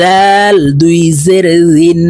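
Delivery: লাল and দিন begun with dh from the tongue tip; tongue-tip Dhal. Shown as a demonstration. Teacher drilling the letter, tongue-tip dh in লাল and দিন. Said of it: "জিহ্বার আগা থেকে এই জাল হরফের উচ্চারণ".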